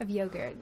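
long O in "yogurt", American style. Shown as a demonstration. Host trying it in an American accent, American "yogurt". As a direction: say "yogurt" as YOH-gurt with the R sounded. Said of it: "try and do it in an American".

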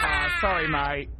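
loud high mock sorry; mock apologetic shout. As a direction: shout it as a blunder. Mock shout after explosion.

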